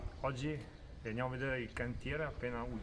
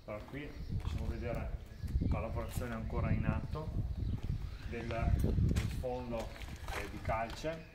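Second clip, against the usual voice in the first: through a face mask. Real, not acted. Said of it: "Qua con la mascherina".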